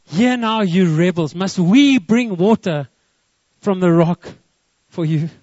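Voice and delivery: loud, forceful rebuke; loudly. Shown as a demonstration. Moses addressing thousands of rebels, loudly. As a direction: project it to a huge crowd, stretching the key words. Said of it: "he had to say it loudly".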